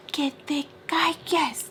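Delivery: high, slow Spanish scolding; imitated shut-up order. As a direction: stretch out the order, mimicking him. Mister Peach snapping, retold.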